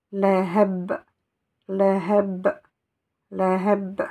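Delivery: leheb ending on a stopped b; leheb with sukun. Shown as a demonstration. Teacher drilling leheb for the class. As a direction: close leheb firmly on the b. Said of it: "je vais la lire avec une soukoun".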